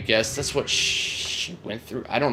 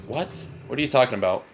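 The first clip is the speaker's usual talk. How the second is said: baffled reply; 2 semitones higher than usual. Retold or imitated. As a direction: retell a puzzled comeback, pitched up at first. Acted baffled reply to accusers.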